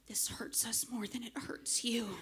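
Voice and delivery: a hushed mock parent line; hammed-up parental whisper; mock mom whisper. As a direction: breathe it like a smug mother. Mom's line during the spanking.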